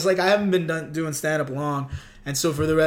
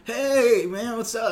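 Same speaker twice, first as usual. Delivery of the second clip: stiff nervous greeting; 6 semitones higher, slower than usual. Retold or imitated. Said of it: "I was, like, so rigid".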